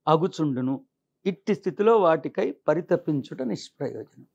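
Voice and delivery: measured scripture reading with pauses between phrases; declaimed sacred verse, deliberately phrased; formal verse recitation. Acted. Reads out verse translation.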